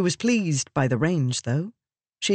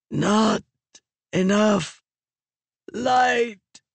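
slow, halting croak of a dying voice, higher; 6 semitones higher, much slower than usual. A narrator's reading. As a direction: squeeze the words out weakly. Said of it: "Raboniel croaked".

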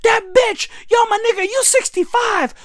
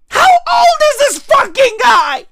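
loud, higher disbelieving shout; incredulous shout; 5 semitones higher, 4 dB louder than usual. Real, not acted. Ranting about the man's age, incredulous shout.

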